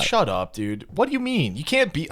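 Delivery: put-on hostility, jumping high without shouting; mock hostile. Host to hopeful fans of the show, mock hostile. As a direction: dismiss them, then pitch up in indignant protest. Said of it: "I don't know why I'm getting so hostile".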